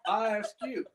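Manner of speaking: high, lightly voiced grumpy old man. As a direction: quiz her like a cranky grandpa. Old man keeps bit.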